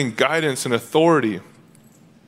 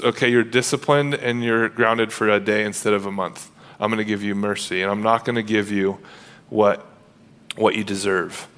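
merciful parent; 3 semitones lower than usual. Pretend. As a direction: let the child off gently. Merciful parent after the angry one.

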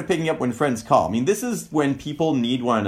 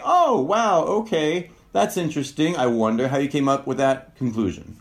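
curious surprise; 3 semitones higher than usual. Shown as a demonstration. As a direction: sound genuinely intrigued. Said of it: "And you can say".

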